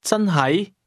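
真係 starting high, dipping, then rising at the end; question intonation. Shown as a demonstration. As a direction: ask 真係 with a lift on the last syllable. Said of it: "use a question intonation".

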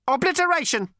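ancient robot with a cultured rasp; cold, sleek machine voice; cold lifeless robot. A narrator's reading. Robot's character voice.

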